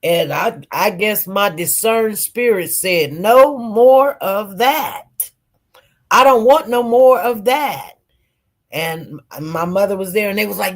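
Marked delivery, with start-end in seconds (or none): 3.1-7.9 slow, emphatic retold refusal; firm refusal. Patient retelling how they refused more morphine, firm. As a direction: draw out each word, putting your foot down.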